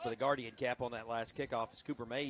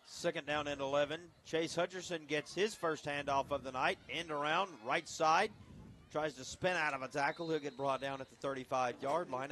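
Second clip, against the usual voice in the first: steady football call, a touch raised; live play-by-play. Real, not acted. Announcer calls a handoff to radio listeners, live play-by-play.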